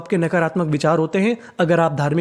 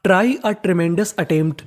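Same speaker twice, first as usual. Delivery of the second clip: very slow, word by word; slow dictation; much slower than usual. Shown as a demonstration. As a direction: read the sentence slowly for the class. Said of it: "reading the full sentence". (बहुत धीरे-धीरे वाक्य पढ़ना)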